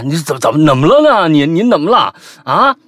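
loud, rising incredulous questioning; baffled, as at a fool. Acted. Narrator stares at sword-waving flatmate as at a fool, baffled questioning. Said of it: "我就像看傻子一样看着他啊".

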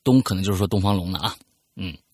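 reading a listener's letter aloud, storyteller style; story narration. Acted. Host reading a listener's letter on air, storytelling narration.

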